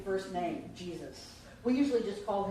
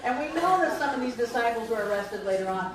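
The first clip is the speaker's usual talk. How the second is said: laughing; 5 semitones higher, 7 dB louder than usual. Real, not acted. Still laughing after the joke.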